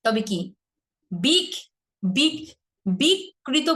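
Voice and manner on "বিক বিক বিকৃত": বিকৃত split high as "bik-krito"; দ্বিগুণ ক. Shown as a demonstration. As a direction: show the doubled k in বিকৃত. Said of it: "কয়ের উচ্চারণটা দুইবার হয়ে যাচ্ছে". ("বিকৃত" ভুল করে বিক্-কৃত)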